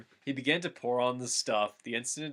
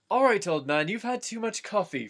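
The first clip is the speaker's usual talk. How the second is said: higher, louder bossy Frodo; Frodo scolding; 7 semitones higher, 4 dB louder than usual. A narrator's reading. Frodo scolding old Gandalf, higher and louder. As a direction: take the coffee away like a scolding nurse. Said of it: "Frodo said".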